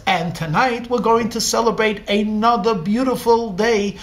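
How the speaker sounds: proud father celebrating his son at dinner; gleeful. Acted. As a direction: announce it with proud delight. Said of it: "the father gleefully says".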